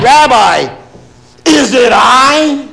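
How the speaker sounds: slow, crying-out question; pleading Judas. Acted. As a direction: let it break out slow and anguished. Judas quoted, acted question.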